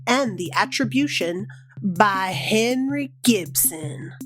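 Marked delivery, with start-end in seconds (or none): 1.8-4.1 sing-song poem intro. Retold or imitated. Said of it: "introduce with a simple title".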